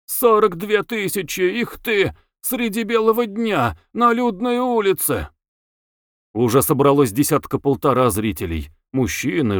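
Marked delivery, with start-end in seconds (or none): 0.0-5.3 high-pitched indignant squeal; scandalised, voice pushed way up; squealing outrage. A narrator's reading. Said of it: "шипел, взвизгивал".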